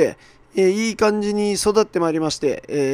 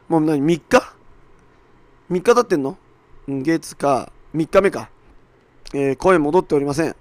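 hoarse voice. Real, not acted. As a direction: voice still hoarse and rough. (かすれた枯れ声)

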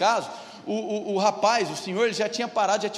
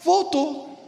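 nurse's startled announcement; 6 semitones higher, 3 dB louder, much slower than usual. Retold or imitated. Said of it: "tocou e falou assim".

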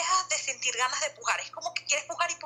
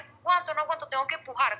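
raised, urgent cry of a woman in labor; desperate plea; 4 semitones higher than usual. Retold or imitated. Mother in labor begging the midwife, desperate raised plea. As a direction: plead that you can't hold it any longer.

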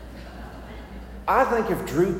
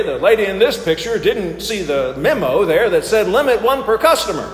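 game show host; 3 semitones higher, 5 dB louder than usual. Pretend. Hosts the sermon game show.

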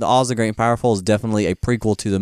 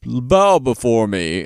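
dark lord; much slower than usual. Retold or imitated. Gnome King commands Mombi.

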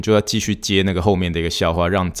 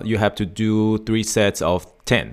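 careful instruction; slower than usual. Shown as a demonstration. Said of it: "比如说我跟他说".

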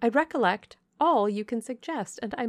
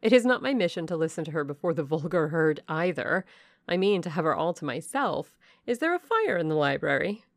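louder, haughty cut-in; imperious interruption; 5 dB louder than usual. Acted. Blanche interrupts her mother, loud and haughty. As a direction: brush mother aside, take command. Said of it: "cut in the angel girl".

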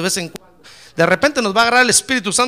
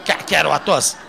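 scornful echo; 3 semitones lower than usual. Acted. Answers the young man's protest scornfully.

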